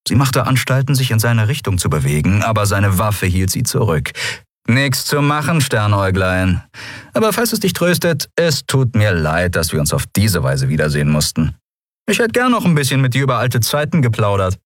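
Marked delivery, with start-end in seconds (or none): 4.7-14.6 lightly voiced smug rogue, mock-regretful; armed old rival. Gunman turning down an old acquaintance's plea, mock-regretful. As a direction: refuse with teasing, insincere regret.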